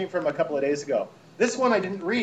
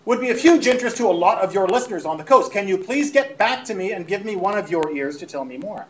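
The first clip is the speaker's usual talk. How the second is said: raised, insistent pleading; yelling email writer; 2 semitones higher than usual. Acted. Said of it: "she's clearly yelling".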